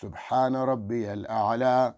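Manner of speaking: slow, stretched "سبحان ربی الاعلی"; slow tasbih. Shown as a demonstration. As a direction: say it calmly. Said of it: "آرام سے بولیں". (آہستہ ٹھہر کر تسبیح)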